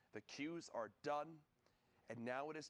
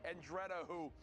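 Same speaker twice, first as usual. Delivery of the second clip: announcing names with rising hype; excited announcer; 4 semitones higher than usual. Acted. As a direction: read out the qualifiers proudly. Announcing qualified players.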